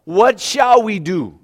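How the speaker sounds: high, slow, panicked cry of alarm; hammed-up frightened servant; mock panic. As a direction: wail it like a servant who sees the army. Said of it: "So he begins to freak out".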